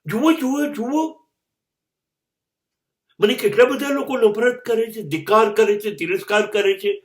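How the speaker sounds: playact yelling at the crossroads for everyone to look; mock street shouting. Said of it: "આવી બૂમો પાડું ચાર રસ્તે". (ચાર રસ્તે ઊભા રહીને લોકોને બોલાવતી મોટી, ઊંચી બૂમો)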